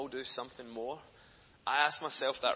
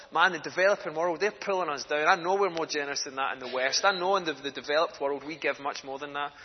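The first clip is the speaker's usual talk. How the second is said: cheesed off; 5 dB louder than usual. Retold or imitated. Westerner reading giving figures, indignant and cheesed off. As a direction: retell mild exasperation, pushing the point. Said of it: "I was getting cheesed off reading it".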